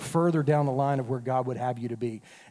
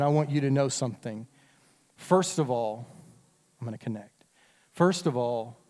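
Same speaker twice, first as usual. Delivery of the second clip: tender parent voice. Shown as a demonstration. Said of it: "can I do it in reverse".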